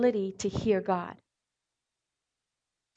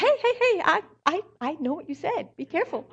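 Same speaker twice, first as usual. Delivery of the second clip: imagined warning; 8 semitones higher than usual. Pretend. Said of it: "my instinct was to go and say".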